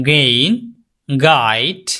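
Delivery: গেইন and গাইড with a hard g; slow, careful example words; g sound words. Shown as a demonstration. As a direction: start each word with a hard back-of-tongue g. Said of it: "এই তিনটা খেয়াল করবেন".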